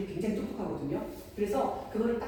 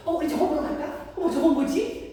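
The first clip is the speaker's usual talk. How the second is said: high, loud mock wonder; distracting exclamations; 9 semitones higher, 6 dB louder than usual. Parent diverting child from a toy, excitedly curious. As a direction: lure the child's attention away with sudden excitement. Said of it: "관심을 다른 데로 확 환기시키면서".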